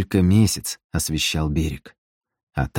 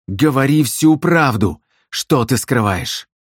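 growled demand; 5 semitones higher, slower than usual. Acted. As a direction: growl it right into her face. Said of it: "прорычал в лицо".

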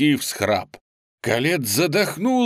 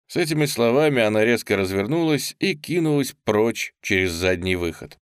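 usual speaking voice

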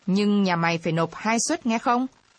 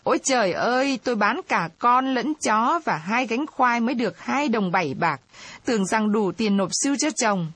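understated keening, pitched up; wailing lament; 3 semitones higher than usual. Acted. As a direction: cry out to heaven in a read-aloud lament. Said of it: "chị khóc chu chéo".

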